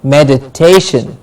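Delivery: "Meditation" as me-di-TAY-shun; stress before -tion. Shown as a demonstration. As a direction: model "Meditation" with the beat on "ta". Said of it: "we stress the syllable before shin".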